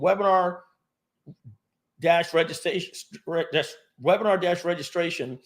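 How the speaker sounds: light mock Biden reading of the name; Biden impression. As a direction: mumble it like a faltering old president. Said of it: "That was my Biden impression there".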